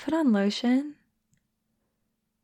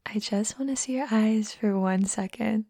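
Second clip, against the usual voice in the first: whispered. Acted. Asking a shy friend to look up, whispered. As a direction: repeat it as a close breathy whisper. Coaxing eye contact.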